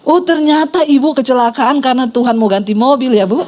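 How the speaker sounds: mock realization with a catty edge; backhanded remark, retold for laughs; imitating snide critic. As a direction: lightly imitate a busybody's dig. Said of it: "Ibu yang juli tadi bilang begini".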